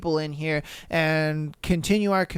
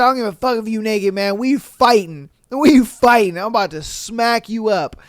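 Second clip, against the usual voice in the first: loud, fast mock threat from the girl's dad; mock angry dad; 3 semitones higher, 4 dB louder than usual. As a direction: fire off the threat like the furious dad. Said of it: "He said".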